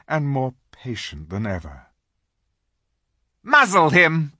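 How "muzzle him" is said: sharp, high witch command. A narrator's reading. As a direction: bark it like a cruel witch. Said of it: "said the witch".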